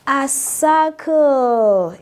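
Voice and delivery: A circle, said slowly and drawn out, word by word; slow model word. Shown as a demonstration. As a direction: spell out A circle slowly for the class. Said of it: "Draw with me".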